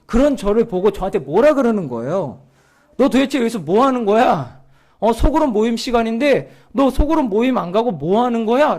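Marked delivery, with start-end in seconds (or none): 3.0-8.8 mild mock scolding from a pastor; retold scolding. Another church's pastor catches him outside group meeting, retold scolding. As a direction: imitate someone telling off a loitering youth. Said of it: "저한테 뭐라고 하는 겁니다".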